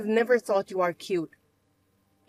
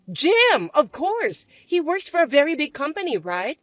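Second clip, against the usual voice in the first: bratty stepsister; 6 semitones higher, 6 dB louder than usual. Acted. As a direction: drag out the taunt.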